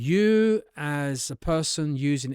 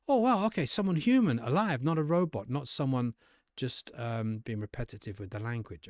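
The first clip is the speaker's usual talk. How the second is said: pleasantly surprised interviewer. Shown as a demonstration. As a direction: react like a bored examiner suddenly woken up.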